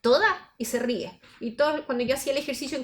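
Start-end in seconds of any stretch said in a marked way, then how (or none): 0.0-0.5 a sharp, higher, louder "¿Toda?"; surprised question. Retold or imitated. Lecturer quotes an interviewee's surprised reply, pitched up. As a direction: imitate the interviewee's startled "Toda?". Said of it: "la persona interviene y dice".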